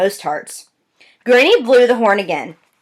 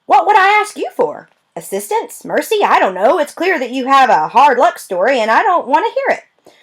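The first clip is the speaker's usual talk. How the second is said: higher, mocking list of questions; sarcastic clerk; 6 semitones higher than usual. Clerk brushing off the girl, sarcastic and higher. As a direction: scoff at what she might ask for. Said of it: "she said".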